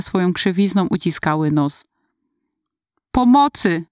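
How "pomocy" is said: choked cry for help. Retold or imitated. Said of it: "wydusiłam".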